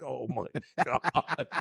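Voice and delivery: slow "oh my God" broken by laughter; retold dismay dissolving into a laugh; laughing disbelief. Racer recalls all the cameras being unscrewed, laughing disbelief.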